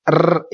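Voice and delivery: र- trilled with vibration; the wrong trilled r; rolled r. Shown as a demonstration. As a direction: roll र-. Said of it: "इस तरह की आवाज आ रही है vibration की".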